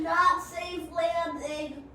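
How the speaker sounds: very slow dry repeat; slow drawn remark. Real, not acted. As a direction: drag it out, weary again.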